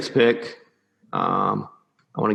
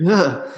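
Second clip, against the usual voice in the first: grossed-out groan after swallowing a fly; disgusted ugh; 5 semitones higher than usual. Real, not acted. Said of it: "I can't talk".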